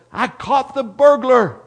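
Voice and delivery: high, loud, urgent shouting; acted breathless-with-news boyish yell; excited yelling. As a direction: holler the alarm like an excited little brother. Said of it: "And then he yelled".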